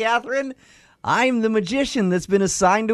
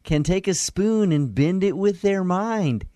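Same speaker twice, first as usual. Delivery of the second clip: magician voice. Acted. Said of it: "I'm gonna probably use the voice".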